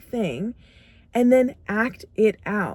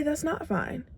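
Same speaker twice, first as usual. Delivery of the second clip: softer, pitched higher, a flat no; firm refusal; 5 semitones higher, 8 dB quieter than usual. Shown as a demonstration. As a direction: put your foot down and refuse. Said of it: "But you need to say".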